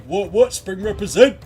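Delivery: high, loud baffled yelp; bewildered bystander. Retold or imitated. Prisoner in the background gawking as the fight goes on, high loud yelp. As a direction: gape like a caged prisoner watching the fight. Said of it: "he's just like".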